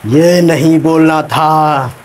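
very slow, stretched, odd voice on ये नहीं बोलना था; parroting in a put-on voice. Actor mechanically repeating the director's words as dialogue. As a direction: actor repeats the scolding as his line. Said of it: "अरे ये नहीं बोलना था यार".

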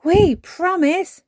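put-on high, loud, drawn-out child's cry; eager cry. A narrator's reading. Peppa promising Granny to sleep, eagerly crying out. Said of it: "cried Peppa".

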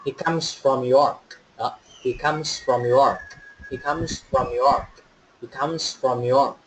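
slow model sentence, voiced Z on "comes"; teacher's careful drill, buzzing the end of "comes". Shown as a demonstration. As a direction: say "comes" as "kumz" each time. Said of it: "chúng ta sẽ đọc âm Z".

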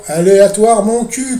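loud, high mocking scoff; scoffing retort. Real, not acted. Scoffing at the naive viewers. (rejet moqueur et bien plus fort)

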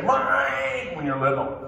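a child's mock whiny mine; a hint of a grabby toddler. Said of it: "It's a natural thing to say".

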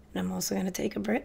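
rushed, rapid-fire chatter; talking really fast. Real, not acted. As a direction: hurry the words out breathlessly. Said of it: "'cause I'm talking really, really fast".

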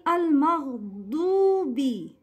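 Al-Maghdubi slowly, with a full long "oo"; full dhamma. Shown as a demonstration. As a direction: complete the "du" in Al-Maghdubi as a pure oo. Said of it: "you should complete the Dhamma". (Al-Maghdubi with rounded, complete dhamma)

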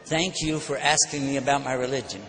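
disarm him with calm courtesy; calm, polite reply. Retold or imitated. Preacher answering the insulting man with calm kindness. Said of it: "But this time, I said".

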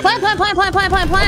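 excited shouted callout; combat callout. Real, not acted. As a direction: yell it, urgent and thrilled. Excited teammates urging plant.

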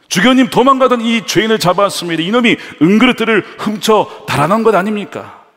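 high, loud accusing report; triumphant gendarme. Retold or imitated. Gendarme reporting caught thief to bishop, loud and high. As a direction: present the thief proudly.

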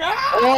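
imitated scream. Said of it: "and he screamed".

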